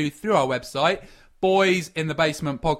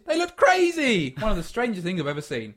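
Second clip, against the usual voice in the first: put-on English accent; 4 semitones higher than usual. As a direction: put on an English workman, starting high. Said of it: "He was English, that one".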